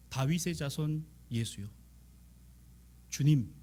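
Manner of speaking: usual speaking voice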